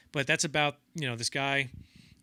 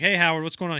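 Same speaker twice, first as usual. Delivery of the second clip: louder, higher call to a hard-of-hearing man; calling loudly; 5 semitones higher, 10 dB louder than usual. Retold or imitated. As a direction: raise your voice so he can hear. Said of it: "So they'd be like".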